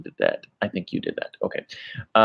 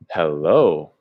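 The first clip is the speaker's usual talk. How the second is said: slow, drawn-out HELLO; different-meaning hello; 4 semitones lower than usual. Shown as a demonstration. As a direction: stretch HELLO slowly with a swooping tune. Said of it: "That has a completely different meaning".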